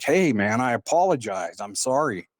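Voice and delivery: apologetic appeal to an offended man; earnest apology. Retold or imitated. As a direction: try to placate him, mildly insistent. Turns round to apologize to him.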